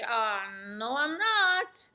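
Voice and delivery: a doubtful seller pushing back; hesitant seller. Pretend. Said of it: "the seller is gonna look at me and say".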